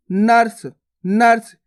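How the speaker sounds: नर्स as one syllable, "nars"; half R. Shown as a demonstration. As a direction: run the r of नर्स straight into s: "nars". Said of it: "तो कैसे पढ़ेंगे".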